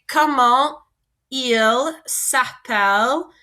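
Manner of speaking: teacher slowing down so students catch it; slow model phrase. Shown as a demonstration. French teacher showing students the alternative question, slow. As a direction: slowly spell out each French syllable. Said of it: "We could also say".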